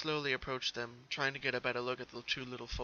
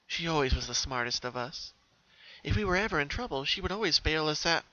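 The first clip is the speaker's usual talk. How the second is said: a light character voice remembering her sister; Pinkie voice; 3 semitones higher, 4 dB louder than usual. Acted. Pinkie recalling how Octavia always saved them, wistful.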